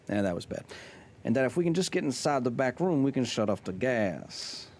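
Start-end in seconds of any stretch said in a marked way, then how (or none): 1.2-4.7 lightly put-on voice, slowing at the end; Goggins impression. Streamer finishes the gas letter for chat, Goggins impression. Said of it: "Let's try Goggins".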